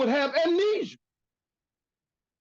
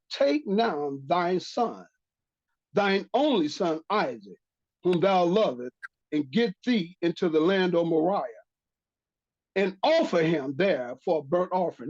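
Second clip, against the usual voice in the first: measured, lower-pitched Bible reading; scripture reading; 4 semitones lower than usual. Acted. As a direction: read the verse out deliberately, phrase by phrase. Reads scripture aloud.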